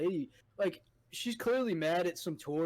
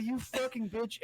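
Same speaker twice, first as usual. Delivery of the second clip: slow, higher mock jab; mocking insult; 6 semitones higher, slower than usual. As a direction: tease her with a slow, high insult. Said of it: "He was like".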